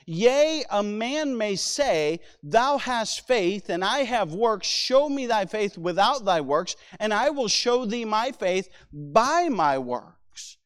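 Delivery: slow, emphatic Bible reading; scripture reading. Acted. Preacher quoting James to the congregation, measured scripture reading. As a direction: read the verse out with weight.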